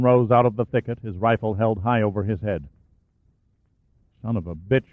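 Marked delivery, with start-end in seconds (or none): 4.2-4.9 low, soft muttered curse. Acted. Sergeant Hooper muttering to Sanchez at the enemy, quiet. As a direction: grumble it under the breath. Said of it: "Hooper muttered".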